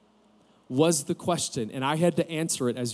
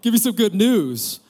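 high, louder retold excitement; eager anticipation; 5 semitones higher, 5 dB louder than usual. Son answering dad's phone call, eagerly expectant. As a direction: act out hopeful eagerness for good news. Acts out his eager reply.

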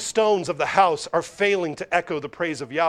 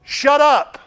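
higher and louder snapped retort; mock rude shout; 8 semitones higher, 11 dB louder than usual. The house silencing the praising crowd, loud mock rebuke. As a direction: shout them down, rudely.

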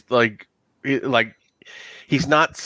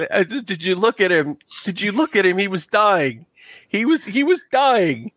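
tearful NPC; 5 semitones higher than usual. Acted. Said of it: "he just starts crying".

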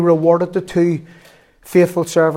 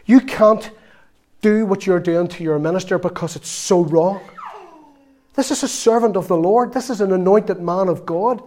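earnest rebuke; 3 semitones higher than usual. Retold or imitated. Telling off a woman who runs down her minister, impassioned. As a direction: plead hard, then press each you've gotta.

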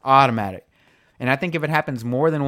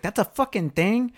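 mock disbelief; 9 semitones higher than usual. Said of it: "I was like".

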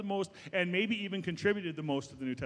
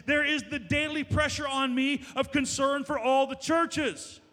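rising, driving preacher's read through the list; impassioned scripture reading; 2 semitones higher than usual. Acted. Pastor reading Paul's sufferings aloud to the church, impassioned. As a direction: build the list of dangers with mounting fervor. Reads Paul's boasting passage with force.

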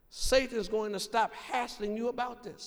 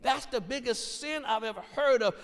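Satan condemning. Retold or imitated. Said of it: "And he starts saying".

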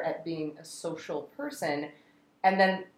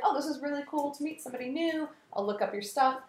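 mock enthusiastic gushing; 8 semitones higher, 4 dB quieter, faster than usual. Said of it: "at first it was like".

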